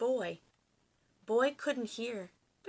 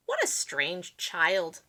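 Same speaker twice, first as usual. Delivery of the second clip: slow, lightly voiced villager; a hint of puzzled townsfolk; lightly voiced villagers, slowly; villagers muttering; 3 semitones lower, 6 dB louder, much slower than usual. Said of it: "they would say".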